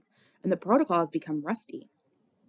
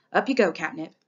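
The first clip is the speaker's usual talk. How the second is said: barely steady; 6 dB louder than usual. Acted. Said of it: "fighting to keep steady".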